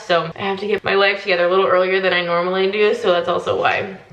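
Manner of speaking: groggy just-woke-up voice; morning voice. Real, not acted. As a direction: talk with a morning voice. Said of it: "like, my morning voice".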